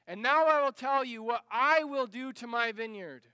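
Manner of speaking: why did it yield wild grapes; frustrated farmer. Acted. Frustrated farmer voiced in story.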